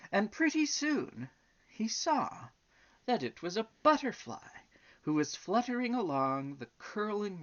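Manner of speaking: lilting, emphatic storybook narration; story reading to children. A narrator's reading. Reading the elephant and butterfly story aloud, storytelling. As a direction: read it out with sweeping pitch on key words.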